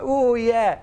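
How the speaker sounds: high, mock-keen agreement; hammed-up eager yes; imitated eager lads. Lads eagerly take the bet.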